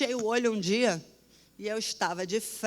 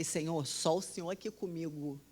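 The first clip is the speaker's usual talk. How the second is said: scared prayer; 4 semitones lower, 8 dB quieter than usual. Retold or imitated. Alone in the grey ICU, praying to God in fear, softly. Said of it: "eu tava com medo danado".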